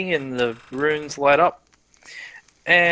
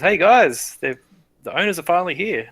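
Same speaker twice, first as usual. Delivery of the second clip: higher, louder call to the others; guard calling out; 4 semitones higher, 4 dB louder than usual. Acted. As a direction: call out to the guys.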